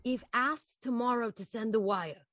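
calm controlling boss voice; Anthony, manipulative. Acted. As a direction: press her, cool and steady. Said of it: "do it again".

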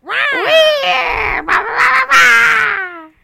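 high shouted cartoon villain; Waluigi voice. Shown as a demonstration. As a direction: squeal it like Waluigi. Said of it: "Do I sound like, um, Waluigi?".

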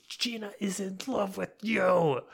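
lightly voiced friend teasing; mock Curtis voice. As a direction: tell him the secret playfully. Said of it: "Curtis is like".

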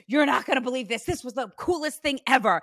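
lightly imitated excited mom; a touch of breathless-with-news hype; dramatic mom. Medium relays mom's big news, mildly dramatic. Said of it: "She's very dramatic".

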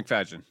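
"McFadden" said as mik-FAD-jən; corrective pronunciation. Shown as a demonstration. Correcting a friend on an actor's name, "McFadden" as mik-FAD-jən. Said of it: "No, it's actually McFadden".

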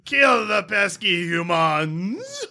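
high, slow orc war cry; hammed-up Italian orc battle shout; Italian-sounding orc. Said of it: "Why are orcs Italian".

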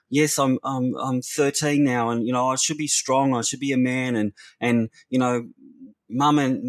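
imitated distressed boy, high voice gradually sinking; tearful confession. Homeless boy confesses he can't cope, imitated tearful apology. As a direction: plead apologetically without real sobs, starting high. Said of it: "he burst into tears".

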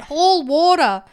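loud, drawn-out yelled order; mock yell. Podcaster imitating Greg yelling out, mock yell. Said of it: "Greg yells out".

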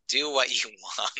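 badly faked American accent, breaking into laughter; attempted American accent. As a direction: try the American accent and crack up. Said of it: "I can't do the accent".

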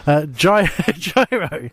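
stifling a sneeze, then laughing; words squeezed past a held sneeze; holding back a sneeze. Real, not acted. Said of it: "I'm trying not to sneeze".

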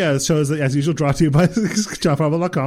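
hurried podcast outro, breaking into a laugh; mock rushed outro. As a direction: gabble through the sign-off as a joke. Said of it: "you rush through the outro".

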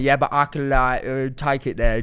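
imitated tough North London accent. Girlfriend mimicking boyfriend when he feels ganged up on, North London accent. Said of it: "he goes very North London".

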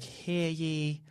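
booming mock herald call; town crier. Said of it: "He's way cooler sounding than that".

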